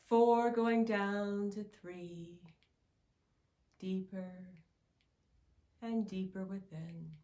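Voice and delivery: guided meditation. Acted. Guide leading listener to float over their timeline, guided meditation.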